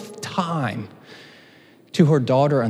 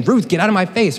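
raised, scornful brush-off; mock dismissal; 5 semitones higher than usual. Naomi telling Ruth to leave, mock scornful. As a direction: shoo Ruth away, hammed-up. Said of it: "Naomi saying".

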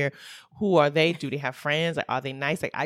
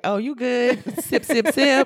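laughing; 6 semitones higher, 5 dB louder, slower than usual. Retold or imitated. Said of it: "I was like".

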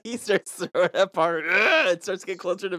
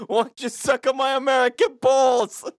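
mock heroic taunt; 6 semitones higher than usual. Captain America taunting a Nazi.

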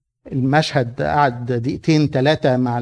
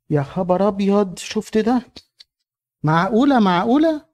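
shocked onlooker; 4 semitones higher than usual. Acted. Onlookers gasp at her entrance.

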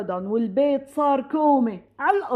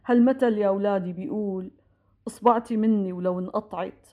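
low, measured retelling of a father's counsel; lightly voiced solemn father; father's parting advice; 3 semitones lower than usual. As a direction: recall his words gravely, pitched lower. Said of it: "وقتها قالنا".

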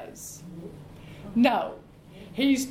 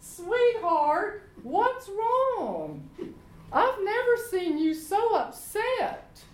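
lightly voiced doting queen, a bit higher; doting wife; 5 semitones higher than usual. Wife Jezebel finding her husband pouting in bed, a lightly voiced doting coo. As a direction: coo over him like a fussing wife. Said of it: "And she says".

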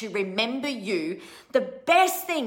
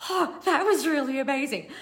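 laughing; 6 semitones higher than usual. Retold or imitated. Retold reaction to being recognised.

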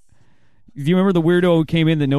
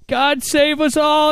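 preacher voice; 13 semitones higher, much slower than usual. Retold or imitated. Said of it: "was like".

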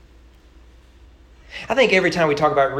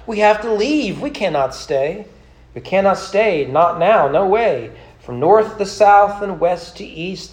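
Naomi; 4 semitones higher, 4 dB louder than usual. Acted. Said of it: "Naomi cried".

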